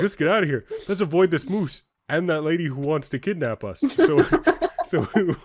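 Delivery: half-laughing mock panic. Retelling running from the moose, laughing.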